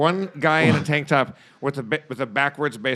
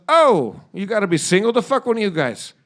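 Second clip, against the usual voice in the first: mock girl voice; 4 semitones higher, 3 dB louder than usual. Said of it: "And she goes".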